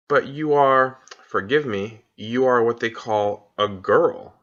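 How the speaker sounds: a faun carefully insisting; faun Tumnus. Acted. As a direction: faun slowing down to make his point. Fawn questions Lucy.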